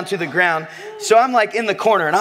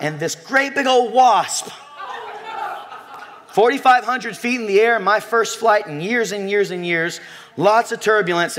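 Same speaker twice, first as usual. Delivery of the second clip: excited storytelling; 5 semitones higher than usual. Real, not acted. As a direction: tell it like it's happening again. Excited retelling of wasp.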